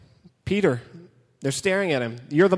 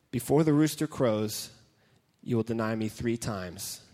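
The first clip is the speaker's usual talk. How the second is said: softer, lower, heavy with regret; quiet remembered words; 7 semitones lower, 6 dB quieter than usual. Acted. Preacher recalling Jesus' warning to Peter, quiet and sorrowful. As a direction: hush it like a painful memory.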